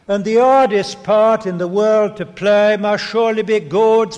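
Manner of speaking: put-on light Cockney accent reciting verse; a hint of a Cockney soldier, recited. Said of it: "My Cockney's not very good".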